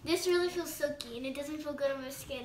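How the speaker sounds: through a wet face mask; talking with mask on face; wearing a sheet mask. Real, not acted. Seen 0: All three wear sheet masks; speaker likely the jersey girl touching hers.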